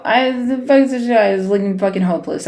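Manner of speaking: calm turning angry. Real, not acted. Frustrated trader losing patience.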